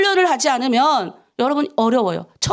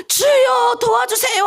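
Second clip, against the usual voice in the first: shouted prayer; 11 semitones higher, slower than usual. Shown as a demonstration. Pastor showing the bold way to pray, shouting. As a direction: cry out to God with all your strength. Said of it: "할 거예요?".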